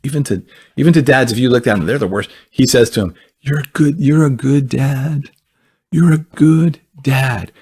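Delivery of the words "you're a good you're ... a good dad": tender affirmation. Retold or imitated. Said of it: "this is how Jesus talks to him".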